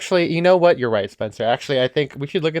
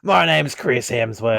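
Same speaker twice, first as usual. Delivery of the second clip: slow mock Australian accent; hammed-up Australian introduction; Chris Hemsworth; 3 semitones lower, slower than usual. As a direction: draw it out like an Australian. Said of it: "That's exactly what he sounds like".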